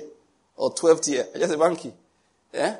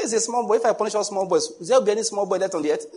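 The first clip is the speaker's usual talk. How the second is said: amused God; 7 semitones higher than usual. Retold or imitated. Preacher voicing God amused by people.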